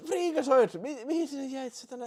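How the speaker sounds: high, loud yell at the marble; shouted disbelief. Real, not acted. Streamer yelling at his leading marble, high and loud. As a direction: call out in disbelief.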